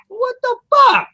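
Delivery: high-pitched incredulous outburst; retold exasperation. Man retelling his reaction to shoppers chattering, exasperated. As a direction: play up the disbelief, pitch shooting high.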